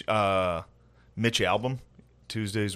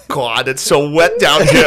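put-on botched Jewish accent; 3 semitones higher, 7 dB louder, slower than usual. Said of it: "I can't do it".

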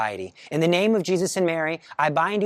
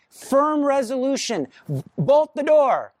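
higher and louder, a firm order; firm command; 9 semitones higher, 3 dB louder, slower than usual. Shown as a demonstration. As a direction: bark it with conviction. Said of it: "if you say it firmly".

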